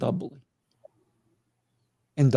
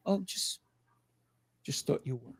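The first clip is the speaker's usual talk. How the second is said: whisper; 12 dB quieter than usual. Acted. Acted reply to cranky question.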